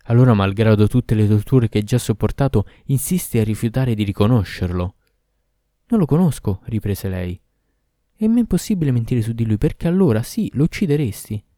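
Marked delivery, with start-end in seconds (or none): 0.0-4.9 louder, forceful demon; angry Ifrit. Acted. Ifrit berating the tortured girl, louder and forceful. 5.9-6.6 put-on higher, pleading young woman; frightened girl. Girl denying to the Ifrit, higher and pleading. 8.1-11.4 higher, pleading woman; desperate girl. Acted. Girl explaining her silence to the Ifrit, higher and pleading.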